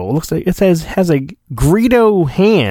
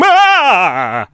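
a short hammed-up cry of waking from a nightmare; sounded like Sallah from Raiders; mock nightmare yelp; 4 semitones higher than usual. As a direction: jolt out of a bad dream with an "ah". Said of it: "That's him having terrible".

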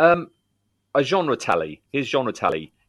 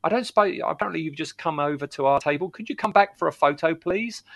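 timid, higher-pitched plea to a star; polite request; 6 semitones higher than usual. Retold or imitated. Fan to actor, a nervous polite request. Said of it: "It's like".

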